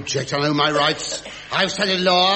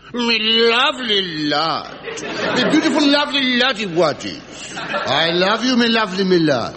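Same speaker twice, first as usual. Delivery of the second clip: mock charm. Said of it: "We'll use the famous Howard charm".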